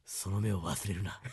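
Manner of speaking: put-on creaky wise old man. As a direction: growl it like an aged warlord. Quoting drama, low slow voice.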